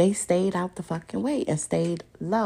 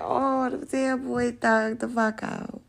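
laughing; 4 semitones higher, slower than usual. Real, not acted. Laughing at the mugshot.

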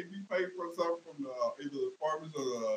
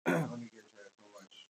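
put-on old lady voice; 7 semitones lower, 6 dB quieter than usual. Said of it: "Old lady be like".

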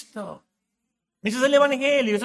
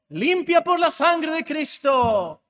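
proclaiming; 5 semitones higher, 4 dB louder, slower than usual. Real, not acted. Proclaiming the written verdict.

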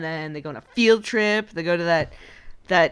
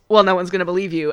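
lightly whiny, quick mock Edward line; a hint of a petulant whine; 4 dB louder, faster than usual. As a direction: toss it off a bit whiny and fast. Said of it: "in kind of a whiny voice".

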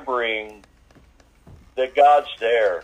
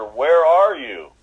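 slow, loud mock call from far above; 5 semitones higher, 5 dB louder, much slower than usual. Rescuer calling from the mountaintop, slow loud call. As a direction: call down the hillside, drawn out.

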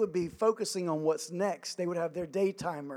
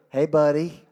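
parent's gentle coaxing; 3 semitones lower, 9 dB louder than usual. Retold or imitated. Parents coaxing their distracted son, mock-tender. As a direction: coax a distracted little boy. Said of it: "they go".

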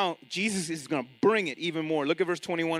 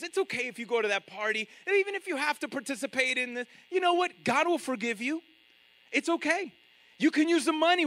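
higher, coaxing false-teacher voice, gently reassuring; mock sweet persuader; 6 semitones higher than usual. Woman urging the church to join the guilds, coaxing higher voice. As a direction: sweet-talk them into compromise like a smooth false prophet. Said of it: "But this woman is saying".

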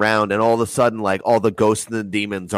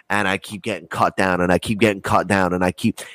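ordinary talk

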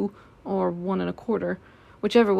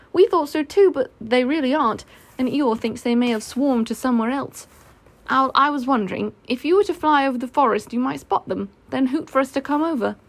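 lightly voiced keen boy, a little higher; eager Christopher Robin; 4 semitones higher, 3 dB louder than usual. Christopher Robin asking Owl to spot the bees, eager. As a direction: put a request to a friend, lifted and earnest.

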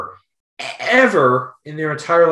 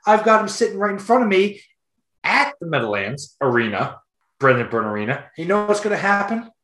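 mock ranting dad. Dad ranting about Brutus kid.

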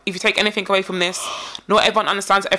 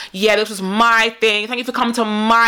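slow, with MY leaned on; imitated stress on MY. Woman thanking guests for coming, MY emphasised. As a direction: draw it out and weight each "my". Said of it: "and that's how she talks".

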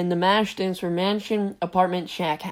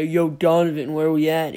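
mock voice; 2 semitones lower, 5 dB louder than usual. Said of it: "It was more like a".

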